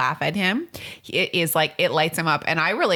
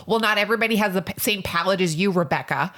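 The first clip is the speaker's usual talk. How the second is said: defensive inner retort; 3 semitones higher than usual. Retold or imitated. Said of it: "I didn't say any of this, just in my head".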